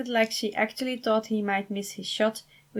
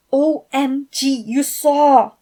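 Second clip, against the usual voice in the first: loud, higher flustered outburst; much louder flustered squeal; embarrassed excitement; 6 semitones higher, 11 dB louder, slower than usual. Acted. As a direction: caught out and thrilled about it. Embarrassed texter reacting.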